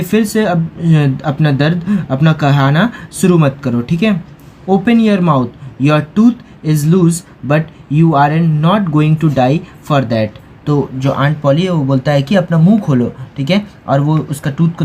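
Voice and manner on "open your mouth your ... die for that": very slow, careful read-aloud of English; slow textbook reading. A narrator's reading. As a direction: read each word slowly for the class. Teacher reads English text aloud.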